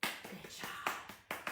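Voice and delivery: breathless praise. Real, not acted.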